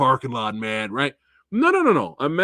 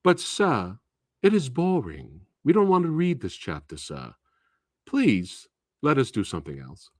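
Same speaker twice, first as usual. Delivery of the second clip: overly polite student. Acted. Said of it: "this is how they talk to you".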